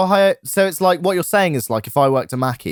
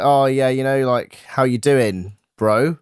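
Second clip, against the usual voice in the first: slow casual greeting leaning on bro; stress on bro; slower than usual. Shown as a demonstration. Showing how to greet a customer, slow with bro stressed. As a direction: drawl it out and land hard on bro. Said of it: "with bro being emphasized".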